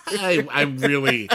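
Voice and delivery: talking through a sore laugh; pained laughing. Real, not acted. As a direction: try to explain while laughing painfully. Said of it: "It hurts to laugh".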